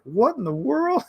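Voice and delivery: high-pitched mock girl voice; girl's reaction. Startled girl reacts to giant sword, high mock voice. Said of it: "this girl's like".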